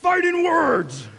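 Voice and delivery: loud, slow, drawn-out call; shouted call-and-response. Shown as a demonstration. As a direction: lead the crowd in a big shout. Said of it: "Everybody say".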